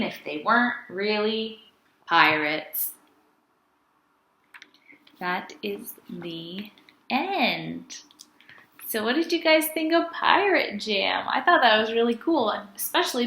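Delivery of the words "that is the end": whispered ending. Acted. Closing the storybook.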